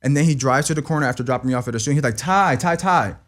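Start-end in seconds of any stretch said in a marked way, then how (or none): 2.2-3.2 high-pitched mock call of a name; retold yell. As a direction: imitate him yelling out, without full volume. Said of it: "hear him yelling from a corner".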